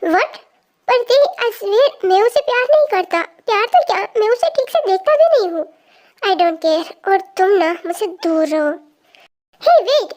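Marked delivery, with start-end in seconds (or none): 0.9-5.6 pleading protest. Acted. Brother protests he loves no one. 9.6-10.1 calling out. Acted. Calling after sister leaving.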